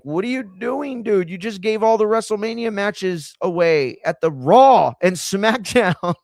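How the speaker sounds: high, loud panicky exec voice; panicked executive. Retold or imitated. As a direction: play a rich exec freaking out. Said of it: "they might panic".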